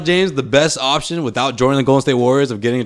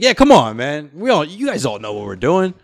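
mock Cuban exasperation; 4 semitones higher than usual. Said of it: "He's like".

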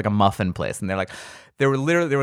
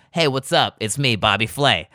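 Bobby Flay swagger. Retold or imitated. Chef surprising the muffin ladies, cocky and showy. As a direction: burst in like a smug celebrity chef. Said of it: "Bobby Flay ... is like".

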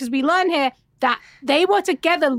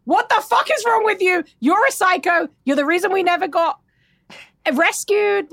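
mock outraged Crystal; 4 semitones higher than usual. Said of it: "And Crystal's like".

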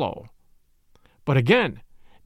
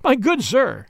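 higher-pitched, mildly impatient address; mild man just losing patience; slight impatience; 6 semitones higher, slower than usual. A narrator's reading. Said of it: "first movement akin to impatience".

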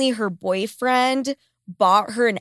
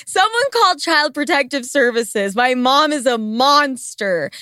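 higher, hammed-up victim's complaint; mock outrage; 4 semitones higher than usual. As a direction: play the wronged kid crying for rescue, as a joke. Mock plea against her mom.

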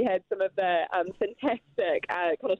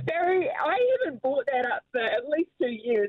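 laughing; 5 semitones higher than usual. Real, not acted. Laughing protest at a tease.

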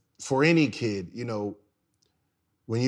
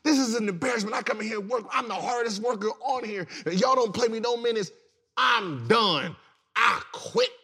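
much higher mock-furious tirade; a benched player ranting at the trainer, much higher and mock-furious; retold rant; 9 semitones higher than usual. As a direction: vent every grievance in one burst. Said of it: "And I snapped".

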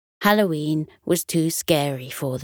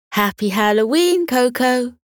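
cheerful greeting; 5 semitones higher than usual. Acted. Dogs greet their friend.

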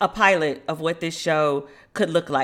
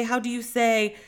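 repeating in a lightly faked Spanish accent; a hint of fake Spanish accent, trailing off; mock Spanish accent; 3 semitones higher than usual. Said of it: "she has a whole accent and will be like".

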